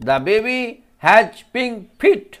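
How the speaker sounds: second take of the line; slow repeat. Shown as a demonstration. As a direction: repeat it slowly for children. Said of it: "ফিটের উচ্চারণটা দেখো".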